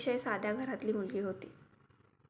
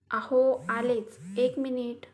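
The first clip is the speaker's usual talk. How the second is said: calling from kitchen; 2 semitones higher, 4 dB louder than usual. Acted. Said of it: "Lata किचनमधूनच बेडरूममध्ये असलेल्या अनिरुद्धला बोलत होती".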